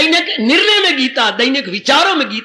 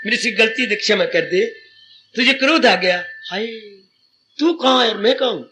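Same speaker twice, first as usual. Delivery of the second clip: gentle apology; 3 semitones lower than usual. Retold or imitated. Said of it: "हमने प्रेम से बोलना है".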